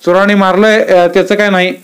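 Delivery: lightly acted rural talk; village conversation voiced. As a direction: play the villagers chatting in dialect. Aba and Shiva chat in village.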